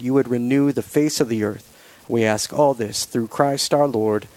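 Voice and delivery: steady, reverent prayer voice. Real, not acted. Leads the closing prayer.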